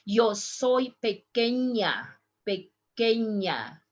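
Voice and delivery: pequeña with a clear ñ, like ny; careful pequeña. Shown as a demonstration. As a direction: stretch out pequeña, the ñ as ny. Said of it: "listen how I pronounce pequeña".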